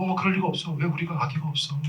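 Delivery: soft, acted murmur of denial; hushed disbelief. Childless couple cannot believe they have no baby, soft acted disbelief. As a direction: act out quiet dismay, voice dropped.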